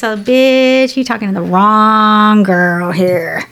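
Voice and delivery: slow, drawn-out sassy retort; sassy comeback. Retold or imitated. Answering the Mavericks cheer with slow playful sass. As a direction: give them some playful attitude.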